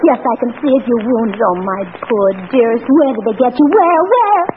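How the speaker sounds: anxious over-the-top nurse-bride; lightly hammed alarm; melodramatic heroine. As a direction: play the distraught wife finding his wound. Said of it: "give it everything you've got".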